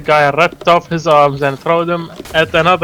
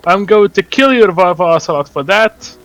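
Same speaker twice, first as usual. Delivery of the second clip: yelled threat; 3 semitones higher than usual. Acted. Jake Snake yelling back at Revolver Ocelot, a kid's mock yell. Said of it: "Jake Snake yelled back".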